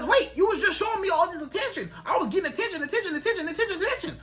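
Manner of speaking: puzzled, rising worry at losing her; worried man. Acted. Man realizing she pulled away, mildly panicked. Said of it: "make that man be like".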